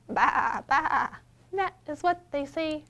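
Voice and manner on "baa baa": bleating "Baa, baa"; sheep bleat. Shown as a demonstration. Librarian models the sheep sound. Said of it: "Can I hear you baa like a sheep?".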